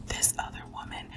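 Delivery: soft, voiceless hush on the secret; whisper. Real, not acted. Reader naming the rumored rival to viewers, whispered. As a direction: whisper it like forbidden gossip.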